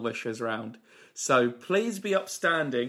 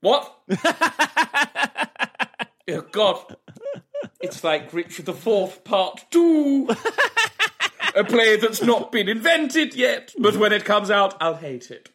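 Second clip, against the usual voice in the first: Michael Holmeal; 4 semitones higher than usual. Acted. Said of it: "It's Mister Michael Holmeal".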